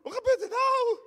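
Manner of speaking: very high, loud cry of alarm; panicked shout. Acted. Preacher acts out his own fright at an unexpected Jesus. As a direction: shriek in sudden panic. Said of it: "Ik denk".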